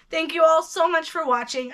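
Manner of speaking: losing her voice after long talk; worn, hoarse throat. Real, not acted. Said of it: "I'm losing my voice".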